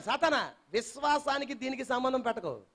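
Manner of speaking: rebuking Satan, rising from hush to shout; building declaration. Shown as a demonstration. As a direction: climb from calm to a roaring proclamation. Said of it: "నువ్వు అనాలి".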